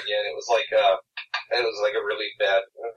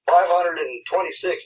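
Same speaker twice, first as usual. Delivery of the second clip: put-on slow, higher drunk English accent; 7 semitones higher, 4 dB louder than usual. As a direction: slur it like a drunk Brit. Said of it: "he had, like, an English accent".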